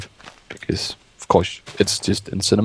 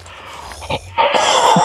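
breathy relieved outburst. Real, not acted. Relief after near death in game.

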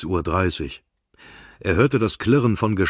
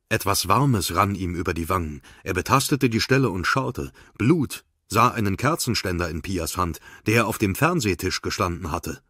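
ordinary delivery, nothing marked

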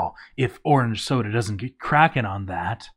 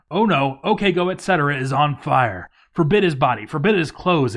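rising panic, louder and higher; alarmed; 3 semitones higher, 5 dB louder, faster than usual. Real, not acted. Player reacting to a burning dwarf, alarmed and loud. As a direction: scramble to give orders as things burn. Dwarf catches fire in fort.

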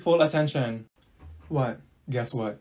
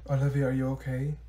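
normal talking voice

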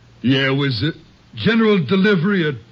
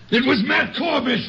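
sudden exclamation; 9 semitones higher than usual. Acted. Sudden realization of killer's name.

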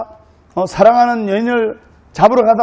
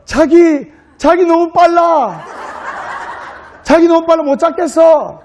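high-pitched, mock-helpless Seoul groom; pretending to fail; 9 semitones higher than usual. Groom falls while pretending to chase bride, mock helpless. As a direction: whine playfully, far higher, feigning defeat. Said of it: "잡으러 가는 척 하다가 넘어지면서".

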